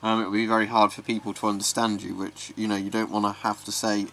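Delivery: muffled behind a gas mask; talking through a respirator. Real, not acted. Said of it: "I'll do the rest of this video with the mask on".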